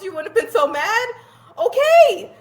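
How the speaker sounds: real laughter on the words; laughing. Real, not acted. Laughing at own story.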